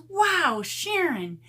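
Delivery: high, slow, sneering mock of the commenter; mocking snooty commenter. Vlogger mimicking a rude commenter, high and sneering. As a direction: drag out the insult like a catty troll. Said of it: "she goes".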